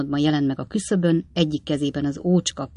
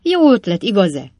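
high, loud, laughing glee; gleeful shout; 4 semitones higher, 5 dB louder than usual. A narrator's reading. Bob shouts gleefully to Pickwick through the window. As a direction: crow it out, delighted with himself. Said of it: "kiáltotta Bob".

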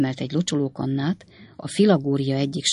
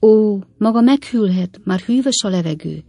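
higher-pitched, tender objection; gentle protest; 5 semitones higher, 6 dB louder than usual. A narrator's reading. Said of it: "tiltakozott gyengéden".

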